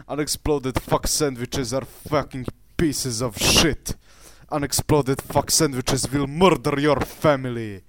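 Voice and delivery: put-on Russian accent in broken English; mock Russian accent. Ranting at unexploded sandwiches in a mock Russian accent. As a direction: rant like a hammed-up Russian. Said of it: "I need more Russian in my accent".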